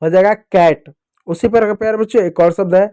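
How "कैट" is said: "कैट" with an open ai between k and t; "ai" vowel. Shown as a demonstration. Teacher sounding out CAT for pupils, open ai in "कैट". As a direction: blend "कैट" as one word, vowel ai. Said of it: "ए का उच्चारण ऐ".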